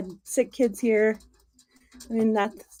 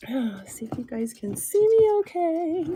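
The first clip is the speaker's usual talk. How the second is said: whisper; 7 semitones higher than usual. Real, not acted. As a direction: whisper it to the viewers, barely voiced. Checking camera view, whispering.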